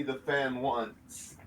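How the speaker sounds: low quiet dumb caveman grunt. Pretend. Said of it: "why are you talking like a caveman?".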